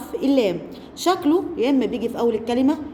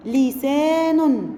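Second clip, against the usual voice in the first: لسان slow, joined up; slow reading; much slower than usual. Shown as a demonstration. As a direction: say لسان slowly as one word. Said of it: "تعالوا نشوف ده في كلمات".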